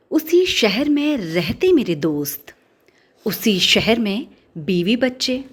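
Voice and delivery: slow, measured poetry reading; deliberate recital, lingering on the line ends; poem recitation. Acted. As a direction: recite the verse line by line, with pauses. Recites a poem before introducing it.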